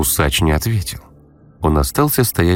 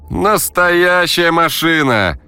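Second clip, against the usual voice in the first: put-on eager teen voice; 11 semitones higher, much slower than usual. Vadim proud of the car.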